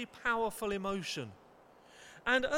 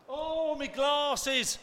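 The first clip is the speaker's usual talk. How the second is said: mock lament; 4 semitones higher, 3 dB louder, much slower than usual. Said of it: "hearing that a lot more".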